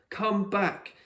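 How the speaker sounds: a high, sharp order, no request; commanding order. A narrator's reading. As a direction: call him back like an order. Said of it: "It was an order, not a request".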